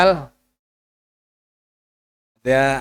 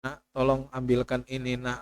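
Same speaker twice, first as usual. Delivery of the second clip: weak sick request; 8 dB quieter than usual. Retold or imitated. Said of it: "Kalau di dunia masih mungkin".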